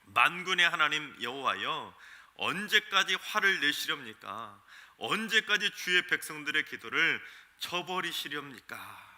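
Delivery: 더 크게 호소하듯 읽는 번역문; 만군의 하나님 여호와여를 크게 부르며 따지듯. Shown as a demonstration. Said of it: "쉬운 성경은 이렇게 번역합니다". (하나님께 따지는 듯 크게 읽는 쉬운 성경)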